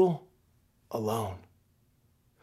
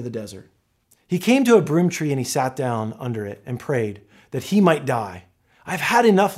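measured, lightly dramatized Bible reading; scripture reading; 3 semitones lower than usual. Acted. Pastor reading scripture aloud to the church, measured and lightly dramatized. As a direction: read the passage to the congregation.

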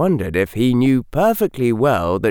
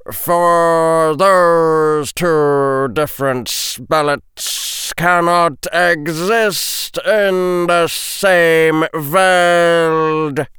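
slow, solemn, louder prophetic chant; intoned prophecy; 6 semitones higher, 4 dB louder, much slower than usual. A narrator's reading. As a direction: intone it like an oracle, very slowly.

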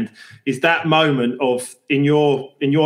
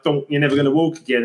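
deadpan; faster than usual. Retold or imitated.

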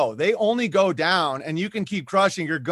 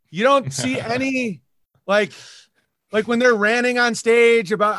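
higher, louder, incredulous challenge; incredulous retort; 5 semitones higher, 4 dB louder than usual. Retold or imitated. Answering the critics who call him unhinged, incredulous. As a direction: throw it back at them in disbelief. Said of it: "I'm like".

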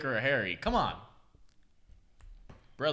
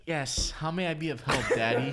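a man's light, mock girlish voice. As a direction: play the girlfriend, half-joking and lightly voiced. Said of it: "I'll be the girl voice".

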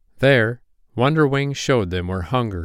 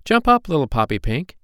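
higher-pitched, lively urging; rousing call; 7 semitones higher, 3 dB louder than usual. A narrator's reading. Older fairies waking sleepy Poppy Pink, high urging. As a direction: get the little one moving.

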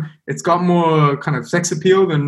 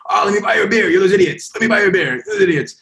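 put-on old locals teasing; 7 semitones higher, faster than usual. Old Scottish men in pub.

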